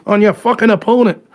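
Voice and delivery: badly faked British accent; terrible British accent. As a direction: fumble through a mock British accent. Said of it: "I'm a fucking terrible at accents".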